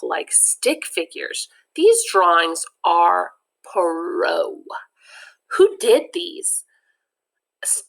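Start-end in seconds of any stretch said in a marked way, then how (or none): 1.7-4.6 slow hushed amazement; awed whisper. Acted. 5.5-7.8 stammering. Acted. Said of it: "Teddy stammers".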